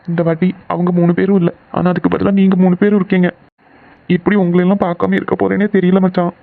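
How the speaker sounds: upset, holding back tears; tearful goodbye. Acted. Departing friend confiding how hard leaving is, mildly tearful. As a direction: pour out the pain of leaving. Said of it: "சின்ன பையன் மாதிரி அழுதுட்டு இருக்க".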